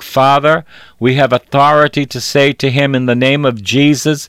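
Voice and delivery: a preacher's spoken prayer for healing. Real, not acted. Pastor praying for Vinny after his stroke, prayer. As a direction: pray it out to the Father with authority.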